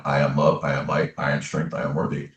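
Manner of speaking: low, soft self-talk mantra; inward affirmation. Retold or imitated. Man remembering his mantra when hard on himself, quiet inward voice. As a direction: murmur it gently to yourself. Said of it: "I would just start saying in my mind".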